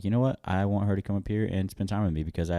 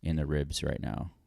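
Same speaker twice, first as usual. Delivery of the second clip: quietly voiced inner thought, softer; inner voice, hushed; 3 semitones lower, 6 dB quieter than usual. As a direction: mutter the secret wish under your breath. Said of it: "literally in my head, I'm like".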